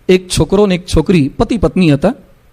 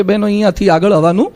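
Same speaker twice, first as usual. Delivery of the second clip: calm, polite. Shown as a demonstration. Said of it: "શાંતિથી બાજુમાં જઈને કહેવાય કે".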